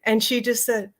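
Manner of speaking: ordinary talk, nothing marked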